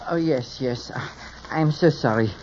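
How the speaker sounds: put-on French accent of a hairdresser; phony French accent. Apologetic hairdresser to his client, phony French accent. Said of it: "without the phony French accent".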